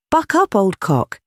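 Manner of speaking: slow, high-pitched mock cheer that falls away; high, slow, feebly rallying call; paralytic professor's exclamation. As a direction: draw out a would-be buoyant cry dolefully. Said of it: "come out of my mouth quite different".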